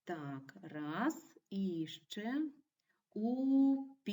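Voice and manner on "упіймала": "упіймала" loud and high, syllable by syllable, stressing "ма"; stress on third syllable. Shown as a demonstration. Teacher shows pupils third-syllable stress, "упіймала" sounded out with stress on "ма". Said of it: "з наголосом на третьому складі".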